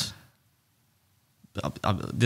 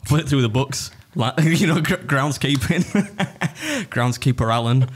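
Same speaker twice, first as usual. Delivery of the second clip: laughing tease; 5 semitones higher, slower than usual. Real, not acted. Joking about Lindsay's dad.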